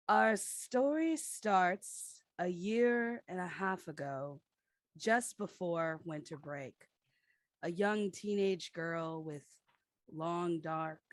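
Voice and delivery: radio announcer voice. Acted. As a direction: read it like a radio trailer. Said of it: "we need your best radio announcer voice".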